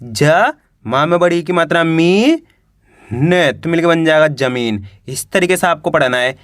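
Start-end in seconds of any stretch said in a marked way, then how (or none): 0.0-2.4 teacher's letter-by-letter reading, "ज" held alone, "मी" stretched and rising; "ज", pause, then a long rising "मी"; sounding out letters. Shown as a demonstration. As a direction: spell it out piece by piece, drawing out "मी". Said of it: "एक अक्षर का उच्चारण करके".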